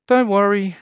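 high, loud reassuring sister; bright sister voice; cheerful big sister. A narrator's reading. Anne voice.

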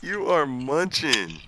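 chewing ice while talking; mouth full. Real, not acted. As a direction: talk through crunching ice. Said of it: "what are you eating".

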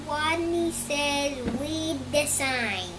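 small timid squeaky voice, slow; tiny squeak. Acted. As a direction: squeak it out shyly, drawn out. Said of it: "and he squeaked".

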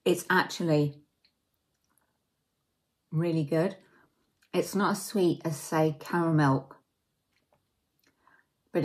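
eating chocolate between words; chewing while talking. Real, not acted. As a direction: mouth partly full. Seen 3: Bit chocolate at -3s; talks with lips pressed, holding bitten piece.

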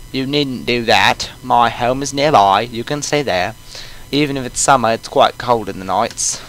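put-on old coot with a British accent; lightly voiced British old man. Player voices the old man, British accent. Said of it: "He's gonna have a British accent".

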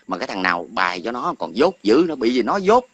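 angry ridicule of whoever wrote his comment; scornful outburst. Real, not acted. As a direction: spit out the insult. Mocking the ghostwriter as stupid.

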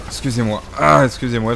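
hoarse after coughing; strained, catching your breath; throat clearing. Real, not acted. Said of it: "j'ai un truc dans la gorge".

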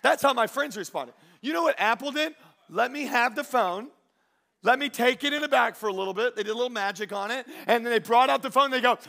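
high, projected sermon delivery; energetic preaching. Real, not acted. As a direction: tell it big to the congregation. Preaching to congregation.

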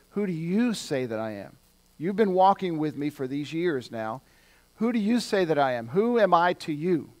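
pointed question, leaning on YOU; putting it to them personally. Retold or imitated. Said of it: "Jesus gets more pointed".

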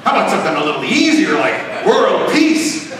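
chuckling genie, rushed then slowed. Acted. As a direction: coax him like a sly genie. Genie bargains with the teen.

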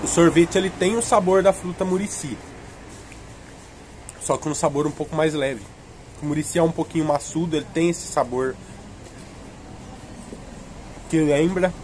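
bites between words; talking while eating popsicle. Real, not acted. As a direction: mouth partly full. Seen 2: Holds popsicle near lips throughout; bites it around 8.7–10.1 s.

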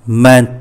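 Ment with the final T clearly pressed. Shown as a demonstration. Teacher isolating the syllable for learners, pressed T. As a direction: land on the T ending Ment. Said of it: "chữ T này mình nhấn một cái".

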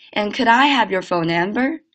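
joined-up question with "could I" as one word; linked sentence. Shown as a demonstration. Teacher repeating for students, linked reading. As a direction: run "could I" together, rising to the end. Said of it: "连起来".

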